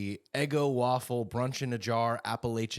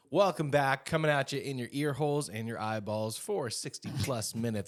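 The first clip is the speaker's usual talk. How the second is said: morning show voice; 2 semitones higher than usual. Acted. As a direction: sell it like a cheesy morning DJ. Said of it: "This is my morning show voice".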